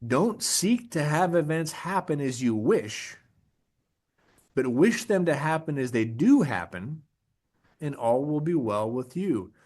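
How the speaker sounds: second, emphatic reading of a Stoic quote. Shown as a demonstration. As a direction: repeat the quote slowly so it sinks in. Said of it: "I'm gonna say that again".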